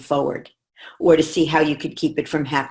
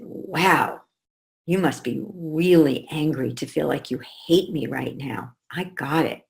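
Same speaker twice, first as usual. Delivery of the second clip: quieter, gentle understanding reply; soft validating mom; 4 dB quieter than usual. Retold or imitated. Mother soothing angry daughter, soft and gentle. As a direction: calmly acknowledge her feelings. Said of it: "And I said".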